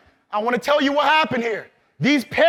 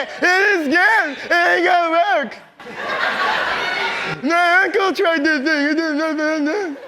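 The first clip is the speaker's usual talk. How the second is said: doubting naysayer; 4 semitones higher than usual. Acted. Speaker voices the doubting walking dead for the crowd, mocking. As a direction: play the doubter who says it won't work. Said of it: "what do the walking dead usually say".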